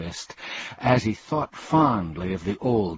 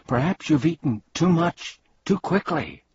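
higher-pitched, sympathetic suggestion; 8 semitones higher than usual. A narrator's reading. Milo to the suffering bug, sympathetic. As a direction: offer it gently, with concern. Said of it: "Milo remarked sympathetically".

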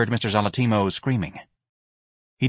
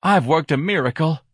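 smug wife voice; 7 semitones higher, 4 dB louder than usual. Acted.

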